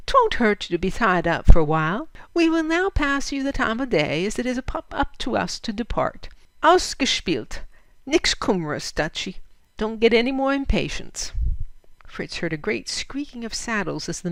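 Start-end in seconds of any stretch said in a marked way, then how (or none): 0.1-11.3 a touch of a swaggering outlaw; mocking bandit. Hondo Bill taunts the bound Fritz, lightly swaggering. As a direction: tease the tied-up driver.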